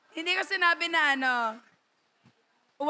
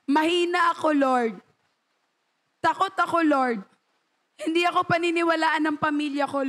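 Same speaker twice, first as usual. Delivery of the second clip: whiny excuses. Retold or imitated. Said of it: "ngumingiti lang".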